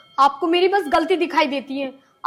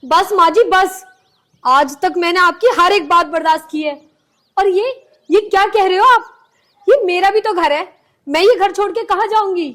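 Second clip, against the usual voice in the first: raised, hurt protest; upset protest; 4 semitones higher, 3 dB louder than usual. Acted. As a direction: finally stand up to mother-in-law. Daughter-in-law answers back. (दुखी होकर ऊँची आवाज़ में जवाब)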